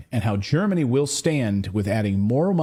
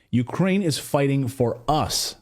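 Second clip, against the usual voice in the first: imitating emphasis; slower than usual. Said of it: "according to von der Leyen".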